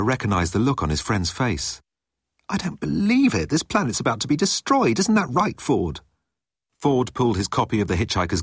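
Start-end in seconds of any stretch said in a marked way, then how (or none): 2.5-6.0 high-pitched, alarmed story character; agitated Arthur. A narrator's reading. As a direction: voice a man protesting in rising disbelief. Arthur voiced in dismay.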